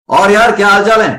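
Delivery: loud, easy call with the voice thrown far; loud, low effort. Shown as a demonstration. Teacher demonstrating high volume to the class, loud and relaxed. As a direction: project it across the room without pushing. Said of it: "volume high रखूंगा, pitch लो रखूंगा".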